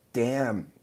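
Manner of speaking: ordinary talk, nothing marked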